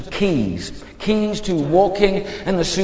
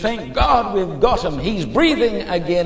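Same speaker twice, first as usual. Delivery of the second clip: higher-pitched, profane-sounding relief; like a cuss word; 4 semitones higher than usual. Shown as a demonstration. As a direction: say the thanks as if swearing. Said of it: "This was like a swear word".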